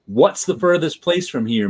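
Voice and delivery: the title said as a quick question; brisk read, no pause after "What's"; fast question. Shown as a demonstration. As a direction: run "What's the furthest" straight through. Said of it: "Makes it sound fast".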